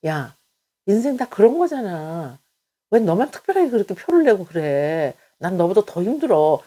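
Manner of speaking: impatient know-it-all, waving the problem away; dismissive friend. Retold or imitated. Friend dismissing a struggling friend, in a mock-impatient lecturing tone. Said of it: "이거는요, 아무 위로가 안 돼".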